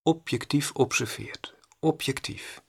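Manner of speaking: a slow, secret whisper of a key word; whispered emphasis. Shown as a demonstration. Stresses objectivity to his audience.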